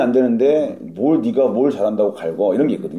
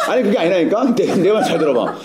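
flustered, slightly raised placating voice; clumsy cover-up acting; 2 semitones higher than usual. Private calming recruit as seniors watch, flustered clumsy act. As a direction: hastily hush the recruit with awkward reassurance. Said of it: "어설픈 연기를 해".

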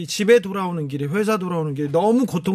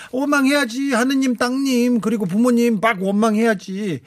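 playful mock grumbling; 6 semitones higher than usual. Host jokingly tells a repentant listener to blame away, playful grumbling. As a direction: egg them on in a high playful whine.

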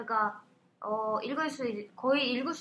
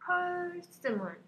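high, very slow "persimmon" with drawn-out PER; British stress; 6 semitones higher, much slower than usual. Shown as a demonstration. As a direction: copy the teacher's "persimmon", stretching PER. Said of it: "영국 발음은".

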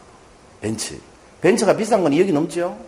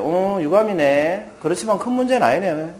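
sincere calm; 5 semitones higher than usual. Retold or imitated. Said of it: "진심으로 이렇게 얘기했대요".

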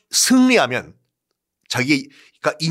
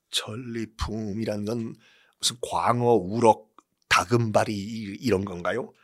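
timid soldier voice; 6 semitones lower, 6 dB quieter than usual. Acted. Confused soldier asks.

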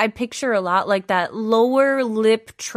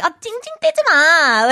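put-on annoyed kid; 6 semitones higher, 4 dB louder, much faster than usual. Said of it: "you'll often hear a lot of kids be like".

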